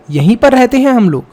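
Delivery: put-on child speaking. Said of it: "Tashi उनको बोलता है".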